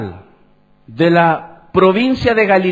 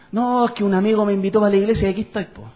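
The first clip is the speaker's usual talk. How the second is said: quick, offhand mimicry of an excuse; casual excuse; 3 dB quieter, faster than usual. Preacher mimics someone invited to church by a friend, casual excuse. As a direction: toss it off fast, imitating a casual churchgoer.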